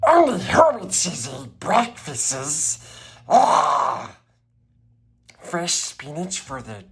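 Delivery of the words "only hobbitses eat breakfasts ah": higher, scornful creature aside ending in a cry; Gollum sneer. Acted. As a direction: sneer at the hobbits.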